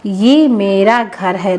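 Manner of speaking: slow, careful model sentence; slow correct model. Shown as a demonstration. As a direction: say the right form clearly. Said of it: "क्या बोलते हैं?".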